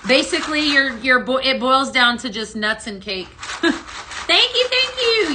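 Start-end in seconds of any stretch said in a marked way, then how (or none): 4.3-5.3 high, loud, delighted thank-you; excited thanks. Real, not acted. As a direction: gush with thanks in a much higher pitch. Thanking a customer for ordering.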